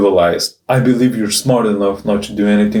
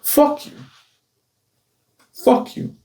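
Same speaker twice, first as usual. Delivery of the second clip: high sharp curse then a breathy whispered one; real defiance at imagined bullies; defiant curse; 4 dB quieter than usual. Real, not acted.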